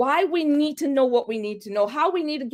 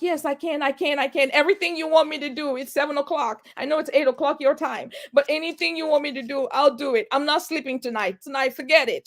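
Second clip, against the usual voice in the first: eager promise; 4 semitones higher than usual. Retold or imitated. Eagerly promising anything to the lender.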